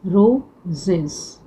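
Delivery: रोजेस drawn out very slowly, the final सेस dwelt on; slow sounding out. Shown as a demonstration. Teacher slowly repeating रोजेस to show its ending. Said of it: "same".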